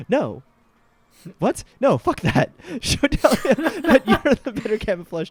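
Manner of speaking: loud indignant outburst; high, loud outraged no; outraged shout. Real, not acted. Outraged reaction to game option.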